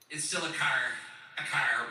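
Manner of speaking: lightly imitated Midwestern vowel; Midwestern accent. Husband teasing his wife's unchanged accent, lightly imitated Midwestern. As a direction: say car in a mock Midwestern accent. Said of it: "I just love the accent".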